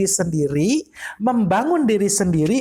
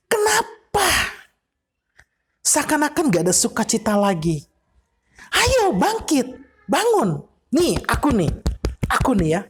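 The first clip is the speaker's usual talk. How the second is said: David rousing himself. Acted. David as another person advising himself, rising urging. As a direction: shake yourself awake and resolve to praise. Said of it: "Daud bilang begini".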